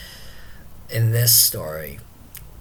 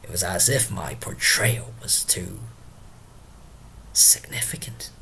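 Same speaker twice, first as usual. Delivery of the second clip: lightly acted tipsy musing, sinking lower and softer; Drunken Porter; 4 semitones lower, 4 dB quieter than usual. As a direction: trail into hushed, halting reflection. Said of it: "let us invite Drunken Porter himself".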